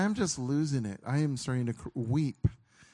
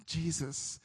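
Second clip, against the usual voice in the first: starting to cry; 3 semitones higher, 4 dB quieter than usual. Real, not acted. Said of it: "this is where I'm starting to cry already".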